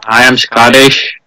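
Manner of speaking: put-on slow, unconvincing Scottish accent; badly faked Scottish, drawn out; failed Scottish accent. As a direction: attempt a Scottish accent and miss. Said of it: "that's not Scottish accent".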